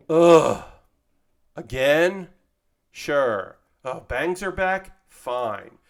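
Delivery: mock exasperated groan, then resigned replies; weary hairstylist. Stylist facing a repeat request, mock exasperated. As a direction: grudgingly give in, voice dropping by the end. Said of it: "hairstylists who are just like".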